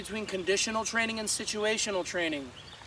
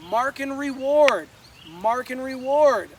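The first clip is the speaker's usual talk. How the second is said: emphatic; 3 semitones higher, 6 dB louder, slower than usual. Real, not acted. Stressing the key instruction.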